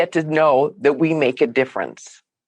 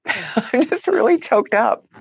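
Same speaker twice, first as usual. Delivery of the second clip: teary laugh, voice pitched up; choked up but laughing it off; laughing through tears; 4 semitones higher than usual. Real, not acted.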